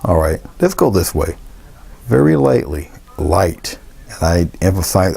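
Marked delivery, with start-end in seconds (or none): 2.0-3.8 "Very lightly" lifted higher, leaning on "light"; stress on light. Shown as a demonstration. Painter stressing a light touch to viewers, "light" emphasized. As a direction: lean on "light", raise the pitch. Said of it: "I'm emphasizing light now".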